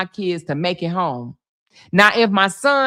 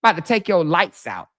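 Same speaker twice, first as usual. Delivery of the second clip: mildly imitated calm warning; unworried calm. Officer warning the man who dared her, unworried calm. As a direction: say it without a worry. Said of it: "didn't sound like she had a worry".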